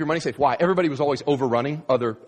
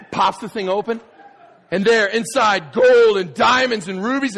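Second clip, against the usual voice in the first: much higher, louder cry of discovery; excited shout; 7 semitones higher, 6 dB louder than usual. Retold or imitated. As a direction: yell it as the lid flies open. Opening the treasure chest.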